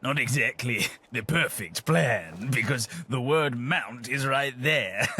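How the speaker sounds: chuckles breaking through the words; laughing while speaking. Acted. Gentleman laughing at his own family name. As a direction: laugh at the obvious joke as you say it.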